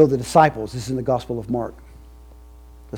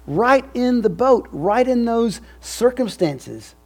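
preaching at full force; 11 semitones higher, 7 dB louder than usual. Real, not acted. Preacher tells the congregation they're still in the boat, loud and emphatic. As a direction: drive home that they are still in the boat.

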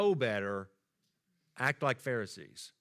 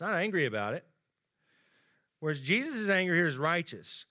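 usual speaking voice

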